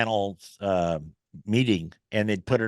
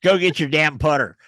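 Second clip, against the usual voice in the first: laughing Trevino scold; 4 semitones higher, 7 dB louder than usual. Retold or imitated. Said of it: "He goes".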